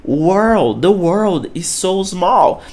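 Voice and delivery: The world is so small, very slowly spaced; careful slow model sentence; slow English demo. Shown as a demonstration. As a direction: read each word slowly for learners. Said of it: "olha a pronúncia".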